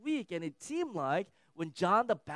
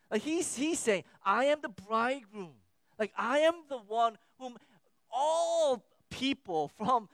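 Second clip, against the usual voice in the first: emphatic proclamation; 5 semitones higher, 5 dB louder than usual. Retold or imitated. Jesus voiced proclaiming, rising energy.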